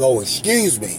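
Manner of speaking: usual speaking voice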